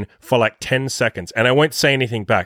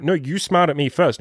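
imitated playful protest, pitched higher; mock-arguing back; goofy, silly; 5 semitones higher than usual. Imitating the girl disputing who smiled first, silly. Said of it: "kind of this, like, goofy, silly thing".

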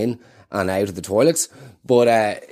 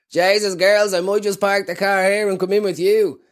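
creepy taxi driver; 8 semitones higher than usual. Retold or imitated. Perverted taxi driver quoted.

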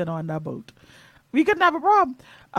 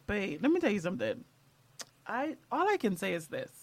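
biting tongue; 3 dB quieter than usual. Real, not acted. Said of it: "I'm choosing my words very carefully".

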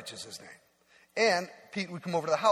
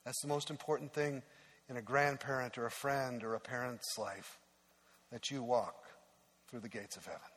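tender father; 2 semitones lower, 6 dB quieter than usual. Retold or imitated. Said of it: "He said".

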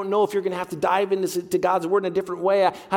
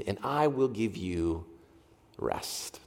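softer and softer to a whisper on rest; fading hush; 9 semitones lower, 8 dB quieter, much slower than usual. Retold or imitated. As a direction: let it fade into a breathy rest. Quoting Jesus, fading to breath.

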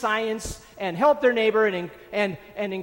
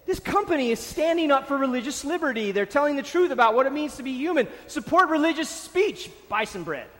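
mocking religious fans; 4 semitones higher than usual. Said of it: "They said".

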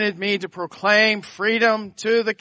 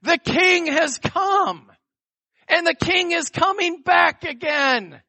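high, slow herald proclamation; grand rich voice; 10 semitones higher, slower than usual. Acted. Proclaiming message to addicts.

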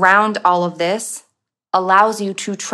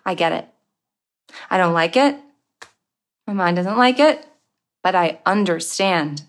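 soft understanding. Pretend. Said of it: "strong and soft and tender".

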